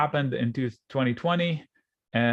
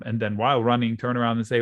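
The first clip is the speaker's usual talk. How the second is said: normal talking voice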